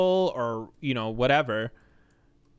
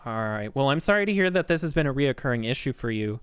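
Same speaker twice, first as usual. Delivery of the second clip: lightly put-on call-center agent; scripted, polite tech support patter; a hint of accommodating phone-support sing-song; customer service voice. Shown as a demonstration. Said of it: "my voice is even worse".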